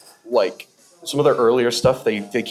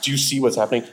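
low character voice; 3 semitones lower than usual. Retold or imitated. Imitating the comedian's deep voice in the sketch, mildly lowered. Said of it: "he goes lower than Broden".

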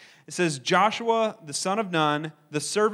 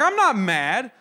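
defensive denial; 3 semitones higher, 6 dB louder, slower than usual. Retold or imitated. Defending himself to family.

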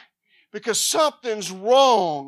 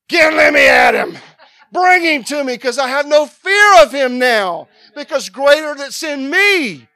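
defiant yelling, higher and much louder; fearless shout at the devil; 5 semitones higher, 12 dB louder than usual. Retold or imitated. Preacher voicing himself taunting the devil, fierce shout. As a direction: roar at the demon like you're itching for the fight. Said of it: "Now I'm like".

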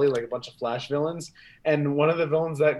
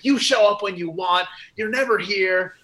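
higher-pitched mock scolding; pissed-off scientists; 6 semitones higher, 3 dB louder than usual. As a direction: imitate fed-up coworkers telling him off. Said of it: "all the scientists are pissed off".

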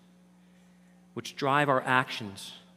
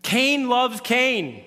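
each word spaced out and heavy; slow emphatic verdict; 9 semitones higher, 8 dB louder, much slower than usual. Acted. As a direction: land it word by word. Punchline of the sermon.

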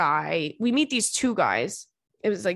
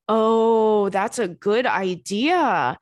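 impressed; 4 dB louder, much slower than usual. Real, not acted. Impressed by tip.

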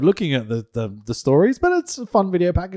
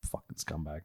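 whispered, much softer insult; 13 semitones lower, 19 dB quieter than usual. Real, not acted. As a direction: breathe the insult under your breath. Muttered insult aside.

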